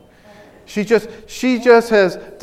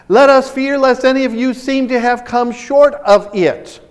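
raised, emphatic Bible reading; scripture reading; 6 semitones higher, 5 dB louder than usual. Real, not acted. Preacher rereading the warning to us Christians, emphatic scripture reading. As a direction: declaim the warning to the congregation.

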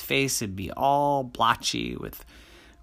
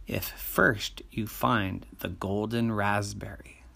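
whispering; 3 semitones lower, 5 dB quieter than usual. Acted. Genie whispers a secret condition.

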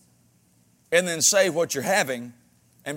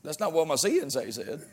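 put-on child quote laughing; 3 semitones lower, 6 dB quieter than usual. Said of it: "They're like".

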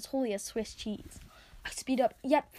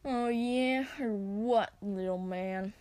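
sneering; much slower than usual. Acted. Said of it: "They sneer down at Scorion".

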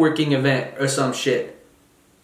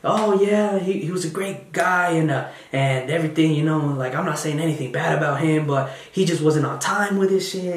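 fake polite. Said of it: "We put on this mask. We say".

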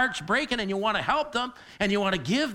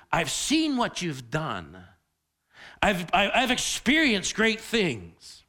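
pleading prayer; slower than usual. Retold or imitated. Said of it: "The question is".

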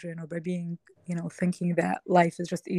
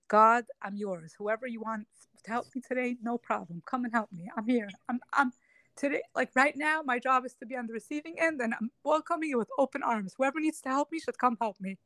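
higher-pitched retold prayer, welcoming help; open-hearted surrender; 5 semitones higher than usual. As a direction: act out an inner plea to God, voice lifted. Surrendering inner prayer to God, acted.

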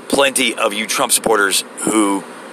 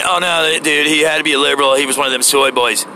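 mocking MAGA fan; 3 semitones higher than usual. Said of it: "I know you're saying".

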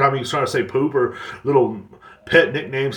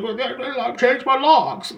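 much higher, slow, whiny mock voice; mocking Amber Heard; 11 semitones higher, slower than usual. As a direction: parody her testimony, pitched way up and dragged out.

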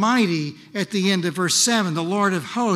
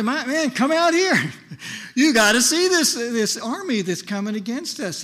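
high, urgent alarmed call; a servant shouting for his master in panic; crying out in alarm; 4 semitones higher than usual. Retold or imitated. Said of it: "he cries".

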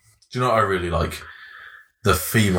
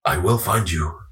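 lightly voiced action hero; film tough-guy impression; 3 semitones lower than usual. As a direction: deliver a grave film threat. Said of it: "I gotta try this again now".

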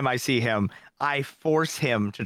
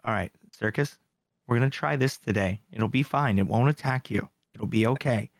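gently coaxing, slightly lowered voice; parental reassurance; 2 semitones lower than usual. Retold or imitated. Host coaxing his picky friend to try food, mildly reassuring. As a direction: coax like a parent with a child. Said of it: "I kinda treat him like my daughter".

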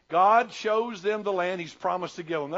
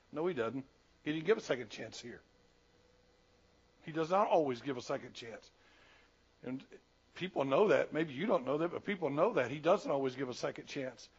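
lower, much softer and grave; solemn low warning; 5 semitones lower, 5 dB quieter than usual. Real, not acted. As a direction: bring them in close for a hard truth.

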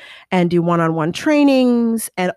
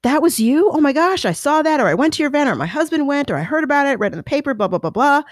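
gushing women; 7 semitones higher, faster than usual. Retold or imitated. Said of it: "women would come up to me and say".

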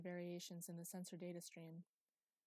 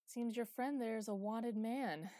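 louder and slow, weighty; loud, slow announcement; 4 semitones higher, 9 dB louder, slower than usual. Acted. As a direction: lean on the news. Chief announces wanted man.

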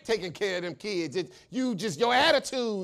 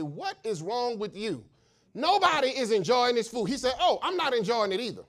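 voicing teacher and boy; 4 semitones higher, 7 dB louder than usual.

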